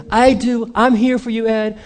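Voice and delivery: high, insistent reassurance; re-enacted lovers' quarrel reply; mock pleading.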